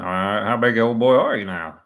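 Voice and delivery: Roy D Mercer impression. Commentator retrying the Roy D Mercer line for viewers, a hint of impression. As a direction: push the gruff prank-caller line harder. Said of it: "I don't do a very good Roy D Mercer".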